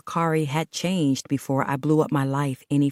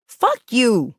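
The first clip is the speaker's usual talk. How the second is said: high, loud, hysterical outburst; hysterical crying yell; 7 semitones higher, 5 dB louder than usual. Acted. Woman yelling at her partner in hysterical tears. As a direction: fling it at him near tears. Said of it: "I cried hysterically".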